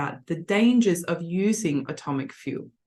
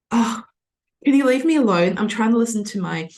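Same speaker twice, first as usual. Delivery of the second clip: irritated snap, higher and louder; cold and snappy; 5 semitones higher, 6 dB louder than usual. Shown as a demonstration. Soldier snapping at his nervous comrade, cold and irritated. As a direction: snap at a pest who interrupts. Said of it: "If it was cold".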